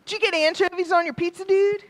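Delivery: loud, high, casual shout to a buddy; rowdy pizza-party greeting. Pretend. Calling to Carl across the pizza table, loud and casual. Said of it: "we can be like".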